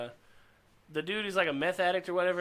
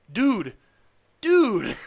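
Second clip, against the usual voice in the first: mock yell; 7 semitones higher, 6 dB louder than usual. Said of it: "And he's like".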